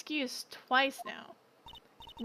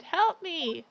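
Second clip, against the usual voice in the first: louder mock cry for help, half-hearted; mock scream; 4 semitones higher, 5 dB louder than usual. Lawyer quoting the witness's scream at her, louder mock yell. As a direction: repeat her scream back louder, mocking it. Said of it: "You screamed".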